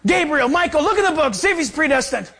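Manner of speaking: high, hurried-sounding call to the angels; mock urgent orders. Mock God sends angels to check the book, mock urgency.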